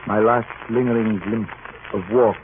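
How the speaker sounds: reflective first-person narration of a seafaring tale; thoughtful radio-drama narration, unhurried; story narration. A narrator's reading. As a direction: tell it like a captain remembering. Captain narrates his story over music.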